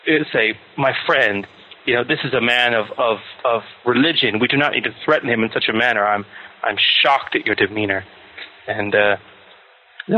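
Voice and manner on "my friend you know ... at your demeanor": a hint of stern rebuke. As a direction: lightly scold your companion. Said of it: "get my voice real stern and say".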